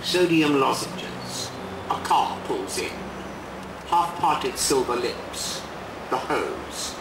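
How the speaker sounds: measured, deliberate poem reading with long pauses; unhurried poet's reading voice; poetry reading. Acted. Poet reads his poem aloud.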